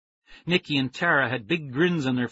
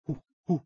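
chimp hoots; 4 semitones higher than usual. Acted. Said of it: "I said".

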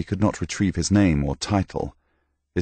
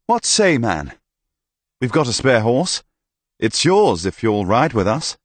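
higher, louder, friendly offer; inviting hearty knight; 5 semitones higher, 3 dB louder than usual. Acted. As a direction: win him over with a spare horse.

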